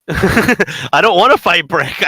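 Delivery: high-pitched comic alarm; hammed-up worried protest; mock dread. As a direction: act out panicked reluctance, half laughing. Acted player dreading a boss fight.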